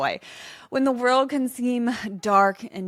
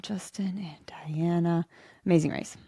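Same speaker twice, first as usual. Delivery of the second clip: whisper to herself; 2 semitones lower than usual. Real, not acted. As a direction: murmur the names while searching memory. Recalling names to herself.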